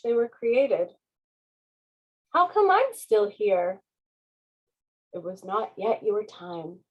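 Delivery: put-on lively read-aloud for children; story narration. A narrator's reading. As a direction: read it like a bedtime picture book. Reading picture book aloud.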